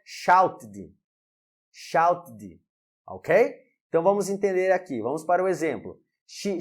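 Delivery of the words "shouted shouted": "shouted" ending in a clear "id" syllable; teacher's careful "shouted", extra syllable after the T; correct ED pronunciation. Shown as a demonstration. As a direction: model "shouted" twice as "shout-id". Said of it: "então a pronúncia é".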